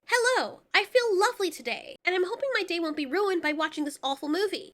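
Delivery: a mock-chipper everyday speaker; mock cheery voice. Shown as a demonstration.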